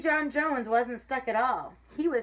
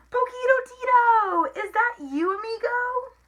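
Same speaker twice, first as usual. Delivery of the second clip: very high, loud delighted squeal; exclaiming; 12 semitones higher, 7 dB louder than usual. A narrator's reading. Kitten recognises his small friend, high excited exclamation. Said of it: "exclaimed Skipito".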